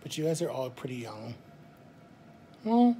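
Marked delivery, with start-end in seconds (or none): 2.6-3.0 loud exclaim. Real, not acted. Objecting to the young assumption.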